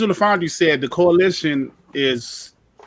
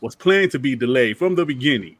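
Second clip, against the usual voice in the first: newscaster voice. Acted. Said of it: "Let me talk to my newscaster voice".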